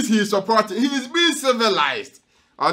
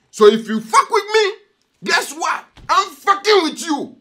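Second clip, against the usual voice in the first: mock stern judge warning; 7 semitones higher than usual. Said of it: "and say".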